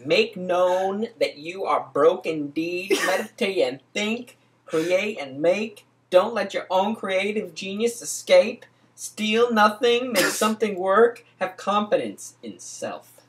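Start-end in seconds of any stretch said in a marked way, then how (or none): 0.0-11.2 dramatic reading. Acted. A friend reading the hustler verses aloud, declaiming. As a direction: preach each line like scripture.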